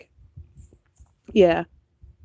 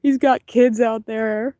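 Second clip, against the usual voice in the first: higher, slow mock guilt; guilty lament; 4 semitones higher than usual. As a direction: wail about being a bad pet owner. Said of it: "I was like".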